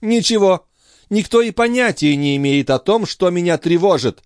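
high-pitched, aggrieved countess; exasperated cry. A narrator's reading. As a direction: cry out crossly, feeling misunderstood. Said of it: "вскричала графиня".

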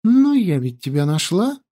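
put-on high, chirpy girlish voice; chirping. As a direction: chirp it sweetly. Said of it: "прощебетала Янди".

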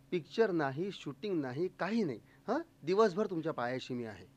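lightly voiced star putting a guest at ease; gentle reassurance. Film star reassures nervous visitor.

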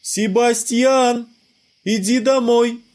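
high, slow call from far off; a mother calling her son home from afar. A narrator's reading. Sebastian's mother calls him home, slow distant call. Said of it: "Крик был издалека".

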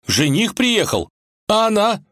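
резко выше и громче, медленно; встрепенулся от тревоги; вскинулся. Acted. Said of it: "вскинулся Иван". (Иван переспрашивает волка, встревоженно вскидываясь)

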